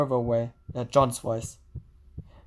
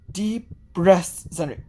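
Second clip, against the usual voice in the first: soothing; slower than usual. Acted. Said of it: "A soothing voice".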